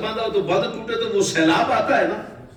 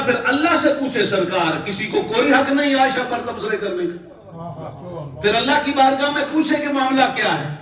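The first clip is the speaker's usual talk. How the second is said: impassioned plea, pitch climbing; fiery indignation; 4 semitones higher than usual. Retold or imitated. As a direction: press the demand with rising heat. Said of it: "جلال کی کیفیت".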